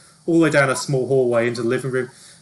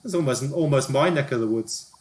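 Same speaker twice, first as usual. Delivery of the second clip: higher-pitched, nosy small talk; chummy TV reporter; 5 semitones higher than usual. Acted. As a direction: play the celebrity guessing at an accent. Plays TV reporter character.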